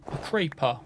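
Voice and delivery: mock British accent, "creeper" said as "craypah"; British kid. Gamer mimicking a funny video, British kid accent. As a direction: imitate a British child's "creeper", vowel like "cray". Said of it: "this British kid goes".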